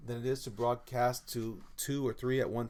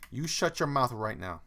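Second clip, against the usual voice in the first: louder stern command, hammed-up; mock scolding; 6 dB louder than usual. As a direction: play the strict parent scolding the pet.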